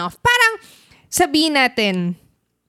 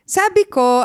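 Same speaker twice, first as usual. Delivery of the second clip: normal talking voice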